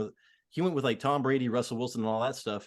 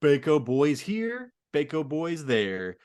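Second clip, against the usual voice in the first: mock Southern accent; 2 semitones higher, 4 dB louder, much slower than usual. Teasing Derek Carr's Southern accent to his co-host, slow and hammed-up. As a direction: drawl it out like a Southern quarterback in a Southern accent. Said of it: "like, Southern accent".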